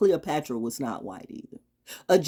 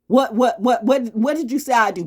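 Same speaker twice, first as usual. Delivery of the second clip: louder, higher demand, words repeated insistently; indignant challenge; 7 semitones higher, 7 dB louder than usual. Acted. Speaker confronting accusers over their claims, indignant. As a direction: fire it at the accusers.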